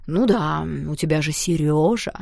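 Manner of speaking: a touch of cross jealousy; mild sudden anger. A narrator's reading. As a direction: Danya jealously snapping at the girl, mild. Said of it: "моментально рассердился Даня".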